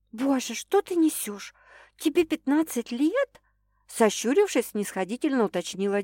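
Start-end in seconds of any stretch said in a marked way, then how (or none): 0.1-3.4 put-on higher, scoffing young woman's voice; incredulous girl. A narrator's reading. Girl mocking her jealous boss, higher and scoffing. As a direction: raise the pitch and scoff at him.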